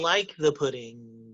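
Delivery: very slow, deliberate phrasing; slow measured impression. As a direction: drag each word out carefully. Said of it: "he was like".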